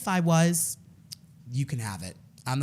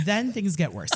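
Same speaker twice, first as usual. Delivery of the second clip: laughing; 6 semitones higher than usual. Real, not acted. Laughing while telling the story.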